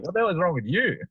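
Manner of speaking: mock outraged retort; exaggerated echo. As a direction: fire the same question back, hammed up. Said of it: "And I'm like".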